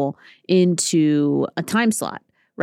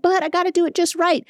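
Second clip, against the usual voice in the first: much higher, fussy cartoon pony voice; Rarity; 12 semitones higher than usual. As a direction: insist on perfection in a squeaky pony voice. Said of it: "And she's like".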